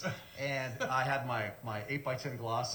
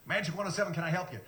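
radio DJ phone greeting; 3 semitones higher, faster than usual. Retold or imitated. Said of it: "First call I answer".

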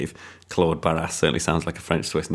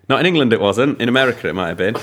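mock retort; 4 semitones higher, 3 dB louder, faster than usual. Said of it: "I was like".

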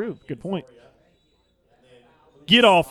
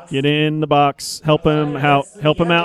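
yelling from the sidelines; 2 semitones lower, 5 dB louder than usual. Real, not acted. Urging players during attack.

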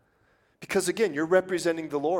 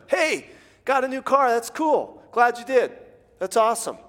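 higher, louder, beaming congrats; cheery congratulations; 9 semitones higher, 4 dB louder than usual. Acted. Preacher playing a happy neighbor, higher and cheerful. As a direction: gush happily over their new car. Rejoicing over neighbor's car.

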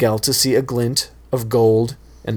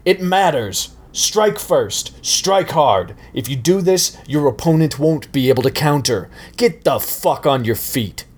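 higher, forceful yelled commands; roaring sensei; 4 semitones higher than usual. Acted. Johnny roaring the Cobra Kai motto at Miguel, higher and forceful. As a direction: drill the motto into him. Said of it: "Johnny roared".

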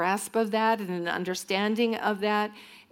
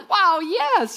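excited cheer; 11 semitones higher, 8 dB louder than usual. Retold or imitated. Thrilled to finish on time.

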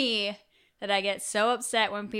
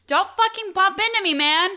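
sudden high loud snap mid-phone-call; angry yell at stranger; 10 semitones higher, 8 dB louder than usual. Retold or imitated. On the phone with her cohost, yelling at a stranger who bumps her. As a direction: bark at someone who bumped you. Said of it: "I'll just be like".

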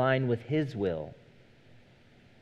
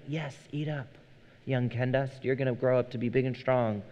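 put-on softly coaxing the baby to eat; gentle parent voice urging a little one to eat up; sweet talk to a toddler; 3 dB quieter than usual. Dad coaxing his one-year-old to eat, gently.

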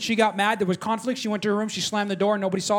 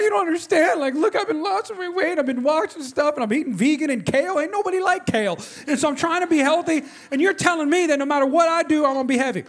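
mock-indignant, higher-pitched rant; retold aggrieved complaint, pitched up; irritated protest; 5 semitones higher than usual. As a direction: plead your case, exasperated. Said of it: "I was, like, irritated".

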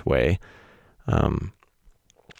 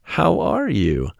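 playful greeting; 2 semitones higher than usual. Real, not acted. Playful high sing-song greeting.

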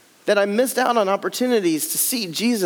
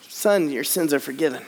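gentle Jesus; 5 semitones lower than usual. Acted. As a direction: say it gently like a blessing. Jesus' words repeated.

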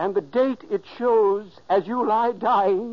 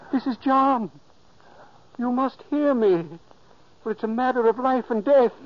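raised, insistent urging; urgent commands; 5 semitones higher than usual. Acted. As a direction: ghost urging sleeping brother out of bed, insistent. Ghost urging sleeping brother.

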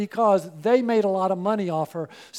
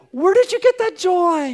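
curious asking; 7 semitones higher, 7 dB louder than usual. Retold or imitated. People asking about their joy.

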